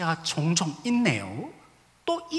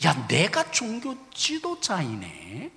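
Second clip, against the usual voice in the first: usual speaking voice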